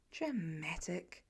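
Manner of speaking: soft slow muttered thought, rising at the end; inner thought. Acted. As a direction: say it under your breath like a private eye-roll. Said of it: "Peter thinks".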